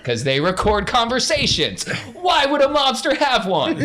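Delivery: high, loud laughing delivery; cracking up at his own joke. Real, not acted. Game master laughing as he explains the mobster.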